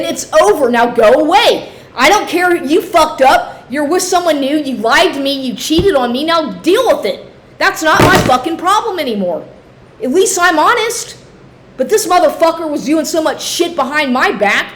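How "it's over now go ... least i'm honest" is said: raised and higher, firmly telling him off; retold telling-off. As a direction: snap back at him that it's over. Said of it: "I've told him over and over again".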